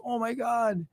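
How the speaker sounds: exhausted relief. Retold or imitated. Gasping relief at pool's end.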